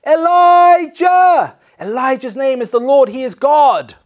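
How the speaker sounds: high, loud slow acclaim; loud drawn-out acclaim; crowd crying out. Retold or imitated. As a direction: cry the name out like the crowd. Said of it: "they're going".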